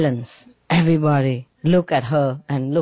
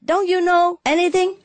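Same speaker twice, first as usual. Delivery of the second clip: exasperated husband; 3 semitones higher than usual. Retold or imitated. Embarrassed husband scolds wife.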